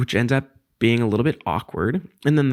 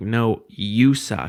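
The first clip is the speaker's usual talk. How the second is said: straight, unsarcastic, irony dropped, acted out. Retelling own reply to someone in the crowd: retelling a line said without sarcasm. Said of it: "a lot less of a sarcastic inflection".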